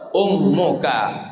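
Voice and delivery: slow, low, weighty reply; the Prophet answering, drawn out; solemn answer. Acted. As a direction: answer slowly and gravely.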